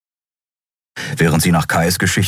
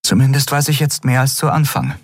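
put-on higher young woman, insistent; Endriel's voice; 6 semitones higher than usual. A narrator's reading. Endriel arguing with Keru, higher insistent young voice. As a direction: lift into her earnest pleading.

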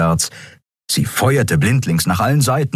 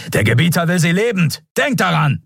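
higher, barked reminder to his men; enemy order; 9 semitones higher than usual. Acted. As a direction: snap it at the troops over the gunfire.

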